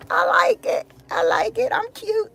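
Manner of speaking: high, playful self-praise; playful preening. Real, not acted. Vlogger admiring her own pink jogging outfit, high playful. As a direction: show off the outfit coyly.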